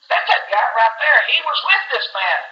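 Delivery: high, pointed bystander's call; acted accuser, high and insistent; excited accusation. Bystander accusing Peter by the fire.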